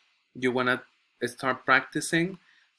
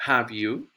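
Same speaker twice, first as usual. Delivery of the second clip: "Have you" climbing sharply on "you"; rising intonation. Shown as a demonstration. Teacher repeats the tag to show students, rising "Have you". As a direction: lift "Have you" into a real question. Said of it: "Go up".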